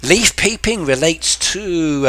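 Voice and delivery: leaf peeping said slow, stress on leaf; slow teaching stress. Shown as a demonstration. Teacher presenting new word to viewers, slow stress. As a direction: introduce the new phrase leaf peeping, slowly. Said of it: "a new word for you".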